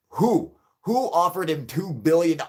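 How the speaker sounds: loud, high disbelieving demand; who, shouted up high and loud; incredulous shout. Real, not acted. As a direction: yell it in disbelief. Incredulous rant.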